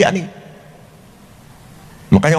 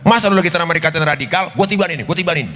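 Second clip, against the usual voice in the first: higher, fast, heated offer; angry Jibril; 4 semitones higher, faster than usual. Acted. Jibril, angry, offers to drop the mountain, high and fast. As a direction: demand to crush them. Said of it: "Apa kata malaikat Jibril".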